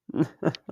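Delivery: short, cruel chuckle at the prisoner; mocking laugh. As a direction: laugh down at your captive. Captor mocks caged prisoner.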